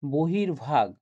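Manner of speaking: বহির্ভাগ with the visarga sounded as r. Shown as a demonstration. Teacher contrasts another sandhi example for students, visarga as r. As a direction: say বহির্ভাগ with a clear r before ভাগ. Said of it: "বিসর্গটা রয়ের মতন উচ্চারণ হচ্ছিল".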